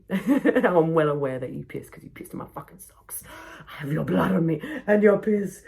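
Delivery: laughing through a disgusted retort; half laughing, fed up; exasperated laughing complaint; laughing exasperation. Retold or imitated.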